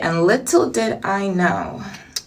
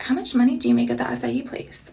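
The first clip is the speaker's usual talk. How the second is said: Dakota's soft voice; 3 semitones higher, 6 dB quieter than usual. Retold or imitated. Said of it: "that's how she talks".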